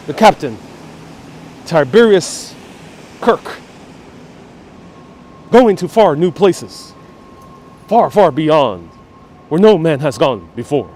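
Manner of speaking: lightly voiced dramatic Kirk; halting, grand captain's log delivery. Doing a bit of Star Trek for chat, a hint of dramatic Kirk. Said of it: "I was doing, uh, Captain Kirk".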